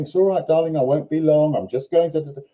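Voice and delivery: mock an owner making drama about leaving; fussy doting owner. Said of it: "Don't create any drama about going".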